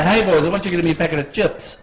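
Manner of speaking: very quick mock Kiwi accent. Shown as a demonstration. Quiz host reminds contestant of the line, quick Kiwi accent. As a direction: race through it in a light New Zealand accent. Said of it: "do it in the Kiwi accent".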